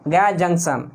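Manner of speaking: जंक्शन with the n clearly said; जंक्शन with every n sounded. Shown as a demonstration. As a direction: keep the n in जंक्शन. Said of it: "आपको हमेशा बोलना है".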